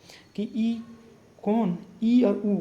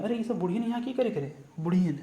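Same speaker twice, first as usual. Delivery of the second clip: put-on a villager grumbling at old women gathered; teacher acting a villager's remark about old women; village scolding; 2 semitones higher than usual. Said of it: "तो क्या बोलेंगे?".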